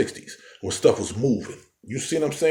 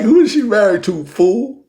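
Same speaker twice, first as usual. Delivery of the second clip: higher, louder, pressing the question home; retold exasperated shout, asked again; loud exasperated repeat; 10 semitones higher, 8 dB louder than usual. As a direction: repeat it louder like he missed the point. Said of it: "I mean, I like".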